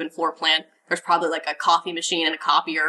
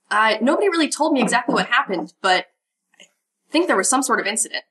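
lightly voiced young ranger, chipper and helpful; eager young ranger Riley; 4 semitones higher than usual. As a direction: keep Riley bright and eager to please. GM holds Riley voice.

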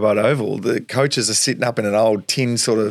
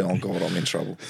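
worried inner voice; 3 semitones lower, 6 dB quieter than usual. Retold or imitated. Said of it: "my demeanour instantly change to".

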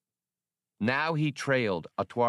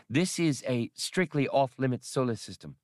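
alien crew voice; 5 semitones higher than usual. Acted. Atwari contributes, alien.

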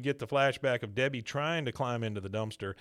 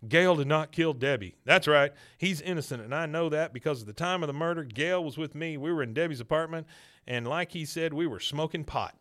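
confessing Hank; 4 semitones higher, 5 dB louder than usual. Retold or imitated. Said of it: "He goes".

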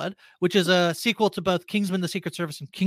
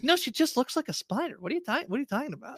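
laughing; 7 semitones higher, 4 dB quieter than usual. Retold or imitated. Mocking tweets, laughing.

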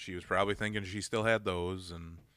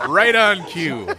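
loud laughing cry, higher and slow; 9 semitones higher, 14 dB louder, slower than usual. Real, not acted. Host laughing at cohost's perfectly timed cough, loud laughing. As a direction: burst out laughing at the timing.

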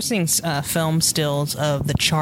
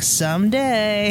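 higher, drawn-out mock longing; wistful longing; 4 semitones higher, much slower than usual. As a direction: stretch it out like a kid's daydream. Retells childhood longing for forbidden movies.

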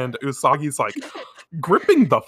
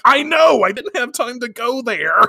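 high, louder, flustered excuse; flustered boyfriend; 10 semitones higher, 4 dB louder than usual. Retold or imitated. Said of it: "he's like".

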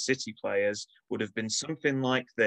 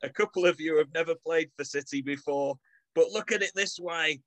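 put-on Manchester accent; 5 semitones higher than usual. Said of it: "in my best Manchester accent".

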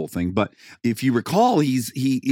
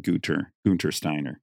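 deep German-style Gunther Steiner; German accent; 6 semitones lower, 4 dB quieter than usual. Shown as a demonstration. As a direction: say the name like a German. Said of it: "Now that's an accent".

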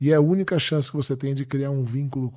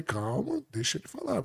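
much softer, soothing "calma"; hushing calm; 7 semitones higher, 10 dB quieter than usual. Retold or imitated. Husband asks wife to let son speak, hushing calm. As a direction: quietly hold off the shouting.

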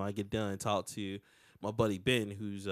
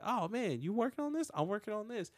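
excited creator voice; 8 semitones higher, 7 dB quieter than usual. Retold or imitated. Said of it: "just said".

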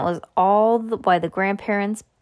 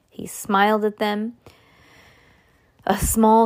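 ordinary delivery, nothing marked

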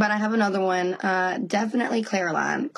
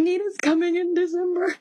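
excited; 9 semitones higher than usual. Retold or imitated. Retelling excited news to son.

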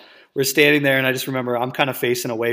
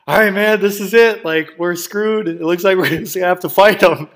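pumped-up resolve; 6 semitones higher, 6 dB louder than usual. Retold or imitated. Cornered in backyard, psyching up.

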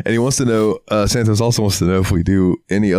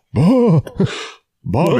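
Hank Hill bah; 10 semitones higher, slower than usual. Retold or imitated. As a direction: bark a sharp bah. Imitating Hank.

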